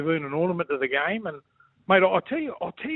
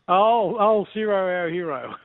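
excited hail; 3 semitones higher, 4 dB louder, slower than usual. Real, not acted. Teasing mate, cheering his old minder's name. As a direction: hail him like a hero. Hailing Ciro as hero.

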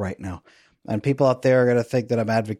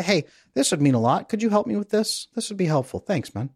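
voicing a calm partner, pitched higher; calm partner asking; 7 semitones higher than usual. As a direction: gently ask a favour as the ideal partner. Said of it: "they just very calmly ask".

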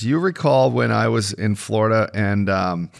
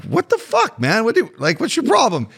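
mock indignant; 9 semitones higher than usual. Acted retort to angry opponent.

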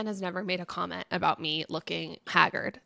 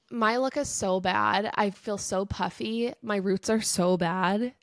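stuffy nose. Real, not acted. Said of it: "this congested voice".

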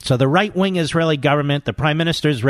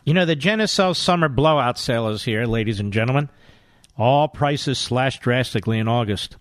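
upbeat hard-sell ad read. Acted. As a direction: push the sale like an infomercial. Host reads skincare ad.

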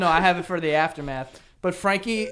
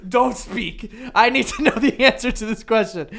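laughing mock urgency; 4 semitones higher, 6 dB louder than usual. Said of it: "You're in your car being like".

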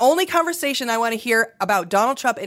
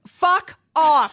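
sudden loud fuck-off outburst; fed-up host snapping at the media, loud; burst of anger; 5 semitones higher, 4 dB louder than usual. Real, not acted. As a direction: spit it out in exasperation. Ranting at the media.

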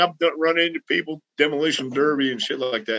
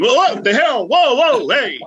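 higher, louder startled whoa; alarmed yelling; 7 semitones higher, 4 dB louder than usual. Retold or imitated. Passengers yelling at the driver slamming the brakes, alarmed. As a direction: yell as the car lurches to a stop. Friends yelling at sudden braking.

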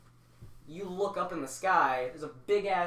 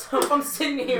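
stoned, loud and laughing; high as a kite; stoner; 10 semitones higher, 11 dB louder than usual. Real, not acted. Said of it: "I'm fucking stoned right now".

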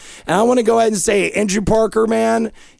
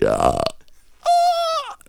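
tiny mock scream. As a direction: let out a comically small, high fake scream. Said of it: "scream loudly".

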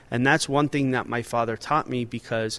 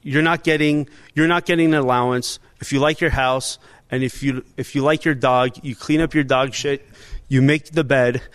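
stern-father comedy bit; 5 dB louder than usual. Retold or imitated. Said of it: "like a Sebastian Maniscalco skit".

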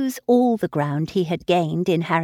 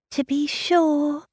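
mortified; 8 semitones higher, slower than usual. Acted. Harriet answering Emma's scorn, slow and mortified. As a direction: give it grudgingly, slow and hurt. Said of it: "said Harriet in a mortified voice".

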